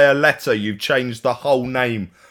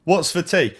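Cockney; 7 semitones higher than usual. Shown as a demonstration. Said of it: "your Cockney nonsense".

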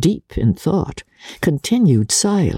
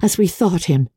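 a slightly higher, gentle sisterly voice; lightly voiced young sister; 6 semitones higher than usual. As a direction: read it as the thoughtful elder sister.

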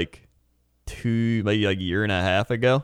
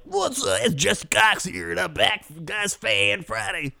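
high, drawn-out mock host intro; Jesse Cox; 8 semitones higher, slower than usual. Imitating co-host to their face, high and slow. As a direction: exaggerate a friend's show opening, pitched up. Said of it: "Even when I do you, I'm like".

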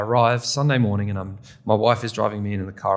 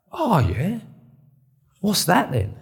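high, mocking drunk-friend question; tipsy mates; 9 semitones higher, slower than usual. Drunk friend asking what preaching is, high and teasing. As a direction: play the tipsy mate teasing. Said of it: "They were well-oiled".

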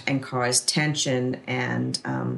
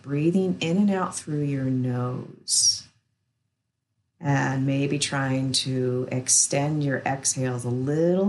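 soothing massage murmur. Acted. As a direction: guide them gently into rest, unhurried. Guides an acupressure relaxation.

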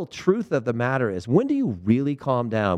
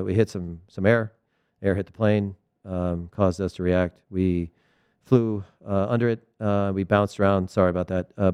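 halting, low-key monotone, lightly put on; Belichick; 3 semitones lower than usual. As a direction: mumble through a grudging update, full of ums. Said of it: "he almost Belichick's everybody".

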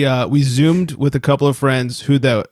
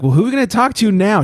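quick, higher-pitched mock wife; imitating tipsy wife; 8 semitones higher, faster than usual. Wife asks who to call next, mock tipsy. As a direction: lightly play the drunk wife, rushing it. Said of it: "She's shittered at this point".

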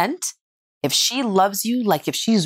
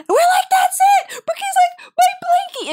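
overjoyed squeal; slower than usual. Retold or imitated. The family and the little girl get the blanket back, high squeals. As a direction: squeal with joy.

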